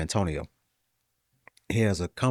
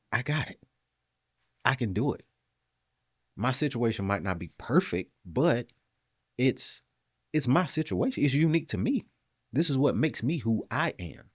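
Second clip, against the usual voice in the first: lightly acted self-encouragement, pitched higher; self-affirming pep talk; 5 semitones higher than usual. Speaker telling themself they can do it, mildly self-affirming. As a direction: reassure yourself point by point, with pauses.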